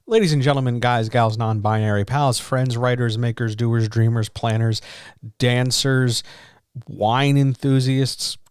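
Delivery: grand showman roll call; announcer. Acted. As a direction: announce it like a ringmaster. Show intro roll call.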